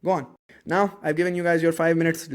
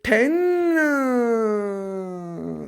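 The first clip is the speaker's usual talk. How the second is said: high, loud, long-held final number; triumphant drawn-out shout; 5 semitones higher, 4 dB louder than usual. Shown as a demonstration. Teacher finishing the electron count, drawn-out shout. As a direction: belt it out and let it slide down.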